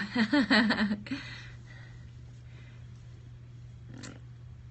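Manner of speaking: long breathy laugh trailing off. Real, not acted. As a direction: dissolve into helpless laughter. Overcome with emotion after concert.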